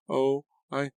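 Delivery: put-on very high, faint girl's voice; sick murmur. A narrator's reading. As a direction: murmur weakly in a high, queasy voice. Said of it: "Melody murmured".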